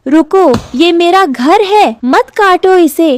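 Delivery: high-pitched, alarmed begging; urgent plea. Acted. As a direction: plead with him to stop. Bird begs woodcutter to stop. (घबराकर ऊँचे सुर में विनती)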